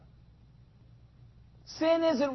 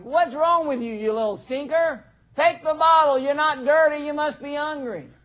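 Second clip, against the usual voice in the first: mock-exasperated scolding, a bit louder; exasperated parent; 3 semitones higher, 4 dB louder than usual. Parent to baby refusing the bottle, mock exasperation.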